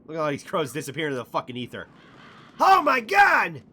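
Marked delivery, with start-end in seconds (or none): 2.6-3.6 slow, high, loud gasp of amazement; stunned, drawn-out shout; amazed shout. Real, not acted. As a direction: let it burst out in disbelief. Crows vanish on screen.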